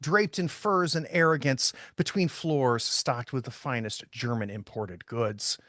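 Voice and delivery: measured, descriptive narration; game master's scene setting. Acted. Game master sets the department store scene for players, narrating descriptively. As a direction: read the scene out like prose, phrase by phrase.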